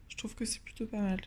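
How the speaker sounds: soft breathy whisper, almost to herself; whispered aside. Real, not acted. Vlogger to viewers about breakfast, whispered. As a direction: drop to a private whisper as she tastes.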